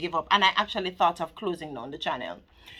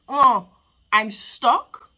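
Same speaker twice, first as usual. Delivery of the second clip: mock whine; 3 semitones higher, 8 dB louder, much slower than usual. Acting out feeling stuck.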